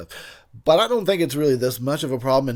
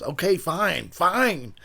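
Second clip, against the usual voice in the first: worn-down giving in; 5 semitones higher, much slower than usual. Acted. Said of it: "until the guy breaks and says".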